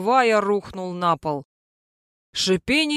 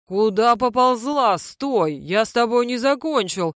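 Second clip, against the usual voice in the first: barking; 2 semitones higher than usual. Acted. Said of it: "По-дурацки рявкнул я".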